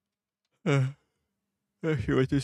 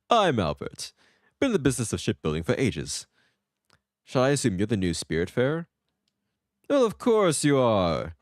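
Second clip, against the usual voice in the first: lightly voiced jolly merchant; a hint of a showy boat seller; salesman shipbuilder; 3 semitones higher, 3 dB louder than usual. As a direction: sell it like a chummy shipwright. Voicing shipbuilder Albert.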